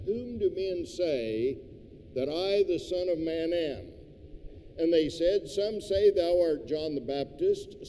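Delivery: measured, solemn Bible reading; scripture reading. Acted. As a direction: read the verses like a formal lesson. Reads the scripture passage aloud.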